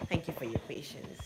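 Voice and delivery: whispered aside; whispering. Real, not acted. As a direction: whisper it softly. Whispered aside while holding baby.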